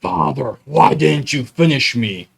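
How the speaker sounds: hammed-up reproach from a raging monster; enraged monster yell. Half-finished cupboard monster accusing its maker, mock enraged yell. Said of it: "looks upon with rage and yells".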